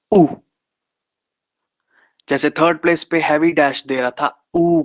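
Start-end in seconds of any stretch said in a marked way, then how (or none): 0.1-0.3 short u as in put, said clearly on its own; short u sound. Shown as a demonstration. Teacher modelling the third place light dash sound, clear vowel. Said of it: "ये sound देता है".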